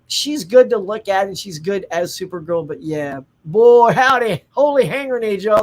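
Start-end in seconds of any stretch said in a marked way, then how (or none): 3.4-5.6 loud, higher burst of dismay; emphatic exclamation. Real, not acted. Fan reacting to a bad movie, emphatic exclamation. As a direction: let the folksy oath burst out.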